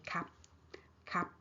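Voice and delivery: KAP with no R at all; R dropped. Shown as a demonstration. Teacher showing native speakers' shortcut, R dropped. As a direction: go straight from K to vowel in KAP. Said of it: "missing out the R sound".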